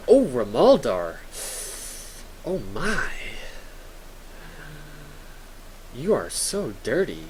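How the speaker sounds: slow, lightly put-on flirty voice; a hint of a hammed-up swoon; mock swooning. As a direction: tease the viewer like a flustered admirer. Reacting to chat teasingly.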